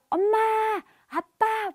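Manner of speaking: put-on high, drawn-out call of a child; loud little-kid summons. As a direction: call for mom and dad like a kid. Child calling out to parents.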